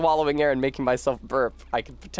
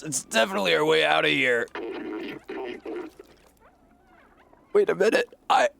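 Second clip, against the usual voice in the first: put-on Irish accent; 7 semitones higher than usual. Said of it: "I gave him an Irish accent".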